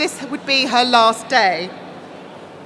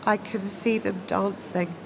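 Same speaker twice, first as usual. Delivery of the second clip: hushed, low-pitched murmur; quiet; 4 semitones lower, 8 dB quieter than usual. A narrator's reading. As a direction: say it softly and low. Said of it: "Cassandra said quietly".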